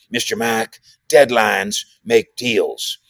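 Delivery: slow, drawn-out Texan owner voice, lightly put on; a lightly done impression of a slow-talking team owner; deliberate, slowed-down owner's drawl; Jerry Jones impression. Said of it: "impersonation of Jerry Jones".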